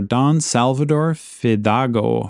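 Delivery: Don Salvador Fidalgo in a half-hearted Spanish accent; names said with a rusty Spanish accent; first try at Spanish accent. Shown as a demonstration. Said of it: "I gotta work on my Spanish accent".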